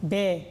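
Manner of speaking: ব্যয় sounded as an open "bae"; pronunciation demonstration. Shown as a demonstration. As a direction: stretch the open vowel in ব্যয়. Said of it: "আকার হিসেবে উচ্চারণ করি".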